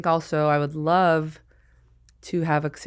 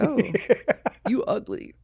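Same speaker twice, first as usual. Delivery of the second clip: robot voice; 7 semitones higher than usual. Pretend. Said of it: "a robot being like".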